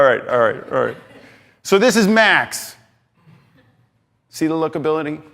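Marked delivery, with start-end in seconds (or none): 1.6-2.8 energetic. Shown as a demonstration. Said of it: "hitting you guys with energy".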